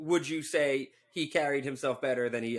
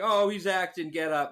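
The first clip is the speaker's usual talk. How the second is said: higher, louder jeer; jeering fan; 5 semitones higher, 3 dB louder than usual. Retold or imitated. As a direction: heckle like a fan in the stands. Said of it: "I heard people being like".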